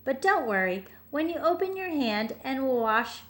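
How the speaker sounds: put-on gentle read-aloud for a child; storybook narration. A narrator's reading. Parent reading a bedtime picture book, gentle.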